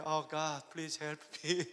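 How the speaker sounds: low, soft plea to God; hushed, re-enacted prayer; praying. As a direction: pray quietly for help. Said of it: "So I start to pray".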